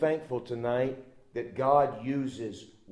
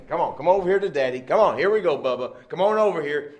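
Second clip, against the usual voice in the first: eager coaxing dad; 3 semitones higher, 6 dB louder, faster than usual. Acted. Dad coaxing toddler again.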